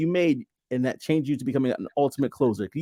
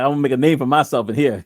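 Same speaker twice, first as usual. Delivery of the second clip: fast, louder words through laughter; laughing quote; 4 dB louder, faster than usual. Real, not acted. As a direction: speak it while cracking up. Host laughing while quoting the son.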